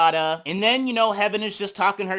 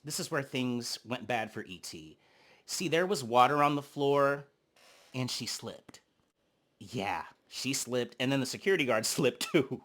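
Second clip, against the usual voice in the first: much softer, lower, hushed; hushed telling; 7 semitones lower, 9 dB quieter than usual. Real, not acted. Breaking bad news of the slip, hushed and low. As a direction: drop to a hushed aside.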